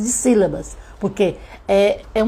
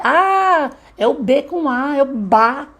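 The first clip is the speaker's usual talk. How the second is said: put-on child's sudden realization; 5 semitones higher, slower than usual. Child discovering that B with A makes ba, voiced with delight. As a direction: act out a child working it out. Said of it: "já vai tá percebendo o que ele fala".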